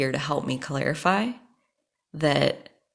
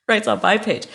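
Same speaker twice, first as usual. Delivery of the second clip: disbelieving laugh; 5 semitones higher, 5 dB louder than usual. Real, not acted. Repeating it in disbelief.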